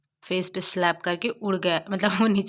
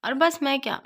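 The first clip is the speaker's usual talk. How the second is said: higher, sweet and cutesy; 5 semitones higher than usual. Retold or imitated. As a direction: coo at him playfully. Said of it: "बहुत cute से बोलता है".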